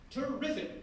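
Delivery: high delighted exclamation; gleeful. Acted. Poet handed a gun mid chase, gleeful high cry. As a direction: grin through it. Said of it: "the poet grinned happily".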